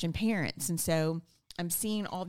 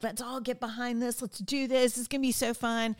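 rallying cheer; 5 semitones higher than usual. Retold or imitated. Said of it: "I'm a galvanizer".

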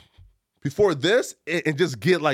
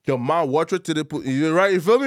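put-on Liberian accent; 2 semitones higher than usual. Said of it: "My Liberian accent is".

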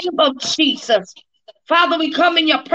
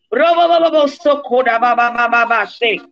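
speaking in tongues. Real, not acted.

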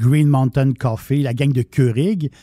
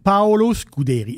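Italian accent; 4 semitones higher than usual. Shown as a demonstration. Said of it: "C'est mon accent italien".

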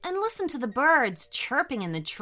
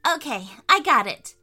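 put-on louder, excited little girl; 4 semitones higher, 6 dB louder than usual. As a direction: announce the wish eagerly. Sophie wishing.

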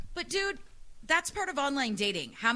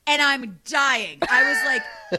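laughing hard; 3 semitones higher, 10 dB louder, slower than usual. Real, not acted. Laughing at catfish photo.

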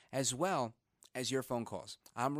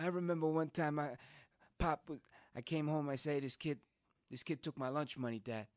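brother Al's voice. Retold or imitated. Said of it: "I'm doing my brother Al's voice".

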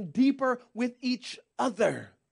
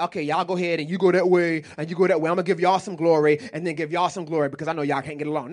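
mocking God; 6 semitones lower, faster than usual. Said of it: "I can't be like".

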